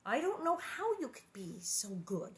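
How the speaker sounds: hushed confession; whispered admiration. Acted. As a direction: breathe it out like a secret. Laura confesses quietly to Mary.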